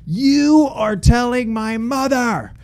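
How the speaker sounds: high slow mock demand; teen ordering the driver to call his mom, mock indignant. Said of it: "I was like".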